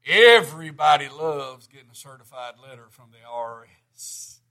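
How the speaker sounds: dry sarcasm, pitched low; deadpan irony, hitting EVERYBODY then sinking; sarcastic. Real, not acted. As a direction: say it with mock sincerity, dropping low after the first word. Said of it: "I'm being greatly sarcastic".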